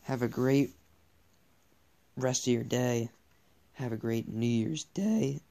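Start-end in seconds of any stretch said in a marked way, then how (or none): 3.7-5.4 voice crack. Real, not acted. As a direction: voice cracking mid-phrase. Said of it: "Voice crack".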